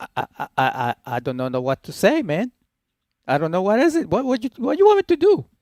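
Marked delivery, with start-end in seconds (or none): 1.0-5.4 cranked-up Spanish accent, laid on thick, pitched high. Asked by another speaker to crank the accent up: exaggerated hispanic accent. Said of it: "if you actually tried to crank the accent up a little bit".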